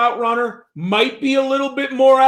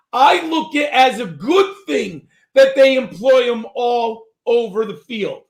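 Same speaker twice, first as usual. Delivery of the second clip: shouting; 4 semitones higher than usual. Real, not acted. Hyped fantasy pitch, shouting.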